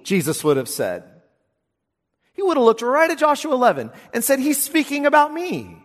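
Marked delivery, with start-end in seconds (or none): 2.3-5.8 excited preaching. Acted. Excited voicing of Jesus.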